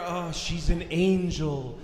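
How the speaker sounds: dreamy admiration. Acted. Guy's romantic inner thought.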